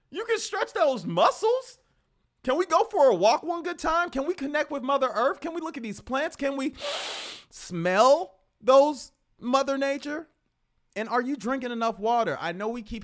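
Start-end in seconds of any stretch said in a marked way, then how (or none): 0.1-10.3 much higher, lilting nature talk; sing-song. Pretend. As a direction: float it up like a dreamy hippie. Dreamy nature encouragement.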